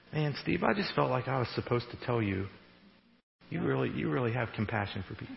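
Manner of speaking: soft, low-key word to a friend; quiet, unforced conversational encouragement; natural, everyday voice. Acted. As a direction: say it gently and casually, no performance. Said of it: "in a very natural".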